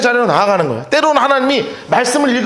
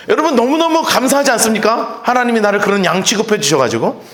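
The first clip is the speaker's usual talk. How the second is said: ordinary delivery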